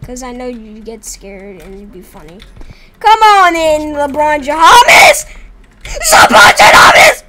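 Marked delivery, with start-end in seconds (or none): 3.0-5.3 slow drawn-out mock welcome; taunting call. Real, not acted. 5.8-7.2 high slow shriek; shrieking name. Real, not acted. Repeated shriek.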